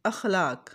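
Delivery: अखलाक with open a on alif, akh-laq; अखलाक not ikhlaq; correct akhlaq. Shown as a demonstration. Teacher modelling the correct अखलाक. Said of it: "अलिफ के ऊपर ज़बर है".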